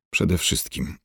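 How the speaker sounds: quiet, biting opener; spiteful. A narrator's reading. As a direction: start off with a sour edge. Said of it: "zaczęła zgryźliwie Dunia".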